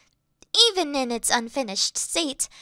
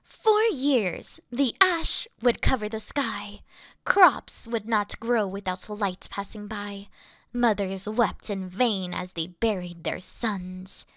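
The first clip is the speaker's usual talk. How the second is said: poem recitation; 5 semitones lower than usual. Acted. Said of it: "I can recite some of them for you right now".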